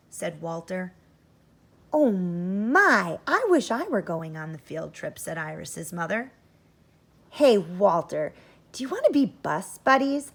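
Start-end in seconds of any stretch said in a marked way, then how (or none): 1.9-5.2 a louder wistful mom sighing; mother wishing she could come along. Acted. Mother voiced in story. 7.3-10.3 louder, eager invitation to a friend; eager call. Acted. Iris asks eagerly in story.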